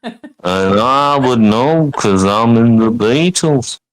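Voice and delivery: put-on lightly done Liverpool accent; a hint of cheery Scouse band member; playful Liverpool band-member voice, only lightly shifted; impression of a singer. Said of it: "Doing an impression of the Beatles".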